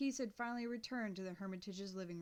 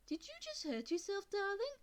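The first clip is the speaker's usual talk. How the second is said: higher, fussing dog-walker lady; lady rushing to a hurt girl, higher and doting; concerned lady; 10 semitones higher than usual. A narrator's reading. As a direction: coo over her like a worried stranger. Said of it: "asked the lady with the dog".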